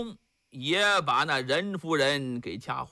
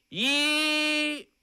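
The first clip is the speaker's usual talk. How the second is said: menacing count; 8 semitones higher than usual. Acted. Monk counting before execution.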